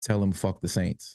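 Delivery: stage-whispered aside. Retelling what a man told his toddler at the game: imitating a whisper. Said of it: "he whispers to his toddler".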